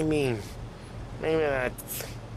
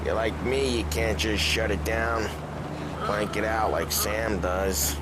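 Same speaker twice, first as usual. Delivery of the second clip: put-on slurred, drunk and rambling; 6 semitones lower than usual. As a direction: talk like a drunk getting maudlin. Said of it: "Paulie, you're drunk".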